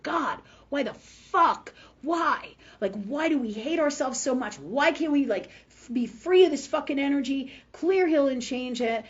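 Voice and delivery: imploring God. Retold or imitated. Asking God to free us of self-hatred, imploring. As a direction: beg upward for an answer. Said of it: "And I asked God".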